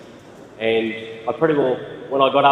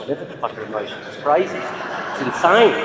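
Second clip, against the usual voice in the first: getting emotional; 3 semitones higher than usual. Real, not acted. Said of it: "I don't know why I'm getting emotional".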